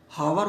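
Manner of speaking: हावर with the silent H wrongly sounded. Shown as a demonstration. Teacher shows students the slip, हावर with H sounded. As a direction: say हावर with a spoken H at the start. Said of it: "एच तो silent है".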